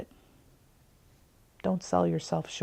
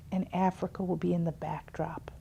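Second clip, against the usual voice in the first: hushed aside; 7 dB quieter than usual. Retold or imitated. Kind neighbor's advice, retold.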